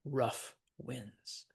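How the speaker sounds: "rough winds" as two even, separate beats; "rough winds" measured, neither word light; both words stressed. Shown as a demonstration. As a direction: give "rough" and "winds" equal weight. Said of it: "or the stressed syllable".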